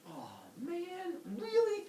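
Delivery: hammed-up "why me" complaint; mock dismay. Prometheus dismayed at overhearing.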